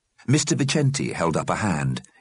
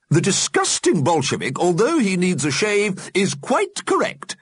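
put-on haughty old lady voice; 14 semitones higher, 3 dB louder than usual. Mrs Liberty on Stickers.

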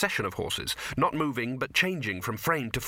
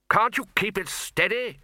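much higher, louder irritated demand; 9 semitones higher, 4 dB louder than usual. Acted. Arch-Chancellor demanding the bursar steady the broom, loud. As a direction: bark it at the pilot. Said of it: "the Arch-Chancellor demanded".

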